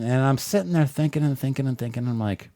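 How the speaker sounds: ordinary delivery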